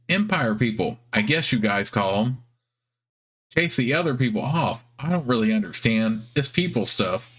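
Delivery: squeaky spider voice. Acted. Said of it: "It has a squeaky, high-pitched voice".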